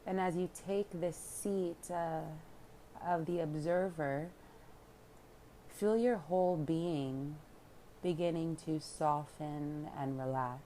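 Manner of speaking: unhurried calm guidance with long pauses; guided meditation. Real, not acted. Yoga teacher leading listeners into relaxation, calm meditation voice. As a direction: guide them inward, leaving room to breathe.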